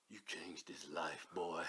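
mock preacher. Retelling what the man said to him, solemn. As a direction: deliver it like a solemn elder. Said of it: "He come in and said".

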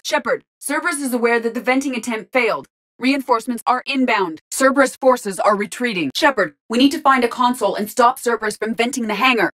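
brief the commander under pressure; urgent battle report. Acted.

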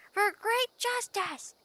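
mimicking the character's battle yell; imitating battle cry. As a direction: ham up the hero's war cry. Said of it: "yells out".

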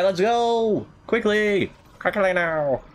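high, hurrying cry; urgent calling. Pretend. Player urging the game on, high urgent call. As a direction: call out to rush everyone along.

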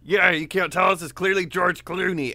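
high, loud put-on celebrity voice; George Clooney impression. Goat Man luring her over as a celebrity, hammed-up impression. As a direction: call out high and loud, badly faked. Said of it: "That's your George Clooney impression".

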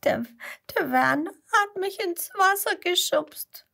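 put-on crying child telling on a boy; tearful little girl. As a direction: complain through tears. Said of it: "Vera schluchzt".

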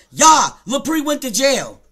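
loud, drawn-out mock taunt; mocking quote. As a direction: imitate the commenter with slow, loud scorn. Mockingly quoting the commenter.

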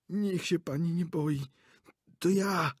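calm her while terrified yourself; nervous old director. A narrator's reading. Director to startled actress, nervous reassurance. Director voiced from under sofa.

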